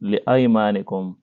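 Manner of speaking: لِأَيْمَانِكُمْ said li-aymanikum, hamza with fatha; li-ay-maa-ni-kum, not li-eemanikum; correct reading. Shown as a demonstration. Teacher repeating the correct form, li-aymanikum. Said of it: "نہیں بلکہ".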